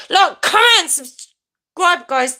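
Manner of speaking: high, chanty sign-off; high-pitched plug stepping down to the last word; catchphrase jingle. Shown as a demonstration. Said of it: "That's what I say".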